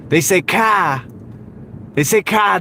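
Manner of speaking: mocking "car" said as "kæ", the R dropped and the vowel flattened; car without the R. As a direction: imitate them saying "car" with no R at the end. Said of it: "they can't say the R's".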